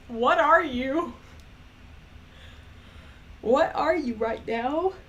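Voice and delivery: put-on Scottish accent. Practicing her Scottish lassie character, mock Scottish accent. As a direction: ask it in a playful wobbling Scottish brogue. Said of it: "sounds Irish when I say it".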